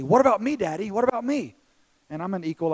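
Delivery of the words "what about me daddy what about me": put-on higher, eager child voice; pleading little son. Young son begging dad for tickles too, pleading higher voice. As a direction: butt in like a kid wanting his turn. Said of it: "David would, would run over and say".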